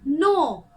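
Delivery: नो loud with a long, round O; teacher's loud, stretched नो; O vowel demo. Shown as a demonstration. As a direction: sound out नो emphatically, O held. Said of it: "ओ की तरह".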